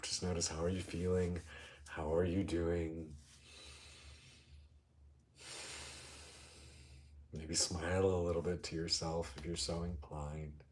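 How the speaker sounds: calm meditation guide, with long pauses; guided meditation. Real, not acted. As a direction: ease listeners into noticing, unhurried.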